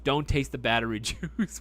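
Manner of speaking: says it again, breaking into a laugh; laughing repeat. Real, not acted. Streamer laughingly quoting his own warning back to chat. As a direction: laugh through the word juice.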